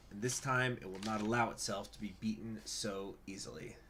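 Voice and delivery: measured storytelling read, falling away at sentence ends; dramatic narration. Acted. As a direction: read it like a solemn political proclamation. Reads in-game event text aloud.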